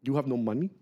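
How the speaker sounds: put-on low, incredulous question in Malian accent; puzzled Malian man, imitated; imitated West African English. Retold local man's incredulous question.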